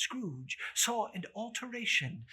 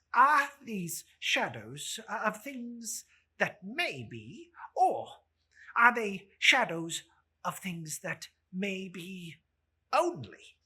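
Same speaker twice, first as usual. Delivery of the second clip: fearful Scrooge; 4 semitones higher, 6 dB louder than usual. Acted. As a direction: ask it dreading the answer. Scrooge asks his question.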